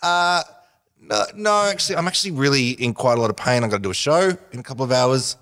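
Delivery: high-pitched, tiptoeing "no"; awkward polite refusal. Retold or imitated. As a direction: turn it down nervously without hurting feelings. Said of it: "I don't wanna hurt her feelings".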